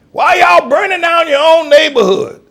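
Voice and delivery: high, loud mock scold; hammed-up preachy mock accusation; mocking critics. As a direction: lampoon the scolding hillbilly critics. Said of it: "the people used to say".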